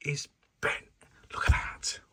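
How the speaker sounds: hushed whisper over the pipe. Real, not acted. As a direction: whisper it proudly. Showing off the bends quietly.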